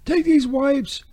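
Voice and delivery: drawn-out sarcastic pitch; slow sarcastic read. Shown as a demonstration. Ad host reading the wipes spot with slow sarcasm. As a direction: lay on the sarcasm slowly. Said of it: "Maybe less sarcasm".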